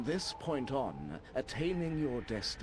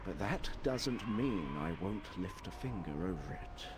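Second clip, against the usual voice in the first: lightly voiced old wizard; old man voice. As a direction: read it as a wise old man. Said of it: "my old man voice".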